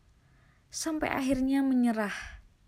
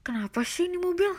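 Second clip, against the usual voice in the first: muttering to himself; 9 semitones higher, 5 dB louder, faster than usual. Retold or imitated. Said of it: "bergumam aku sendirian".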